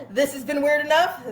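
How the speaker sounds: real laughter on the words; laughing. Real, not acted. Laughing at own story.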